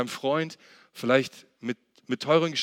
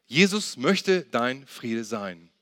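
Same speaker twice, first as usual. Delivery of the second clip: very slow, deliberate, word by word; slow emphatic repeat; 2 semitones lower, much slower than usual. Shown as a demonstration. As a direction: let each word sink in, slowly. Same point repeated slowly for emphasis.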